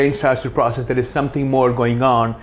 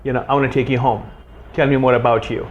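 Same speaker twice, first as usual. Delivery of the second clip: intent. Shown as a demonstration. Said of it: "that intention is what's going to make".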